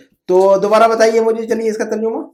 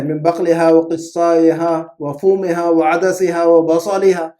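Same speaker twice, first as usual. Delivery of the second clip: Quran recitation; much slower than usual. Acted. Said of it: "ذکر ہے".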